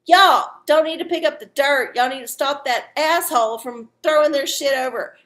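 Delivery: retold fed-up telling-off; exasperated retort. Telling maintenance to stop the dirt-dumper, exasperated retort.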